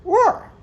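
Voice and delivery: "Roar." said as "woar", w for r; loud "Roar." with a w sound for the r; says w for r. Real, not acted. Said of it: "I can't say my R's".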